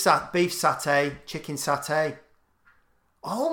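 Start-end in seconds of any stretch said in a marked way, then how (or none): 0.3-2.2 "satay" stressed on its final -ay; last-syllable stress. Shown as a demonstration. Friend trying the dish names, "satay" stressed on -ay. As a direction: lean on the "tay" in "satay". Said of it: "you're really emphasising the last syllable".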